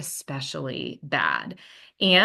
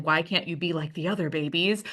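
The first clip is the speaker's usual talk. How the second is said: frustrated. Retold or imitated. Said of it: "like, frustration".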